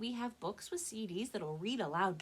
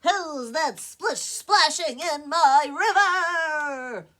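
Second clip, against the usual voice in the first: fish voice; 9 semitones higher, 18 dB louder, much slower than usual. Acted. Fish challenges troll.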